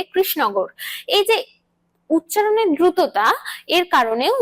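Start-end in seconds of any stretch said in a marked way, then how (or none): 0.0-0.7 কৃষ্ণনগর shortened to krisnogo; clipped word. Shown as a demonstration. Teacher repeating the hurried form of the station name, clipped. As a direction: swallow the end of কৃষ্ণনগর. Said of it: "কথাটাকে পুরোপুরি না বললে".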